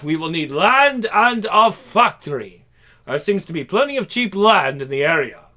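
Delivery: put-on German-accented presenter. Bunsen reporting the polyester prototype, in a German accent. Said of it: "In a strong German accent".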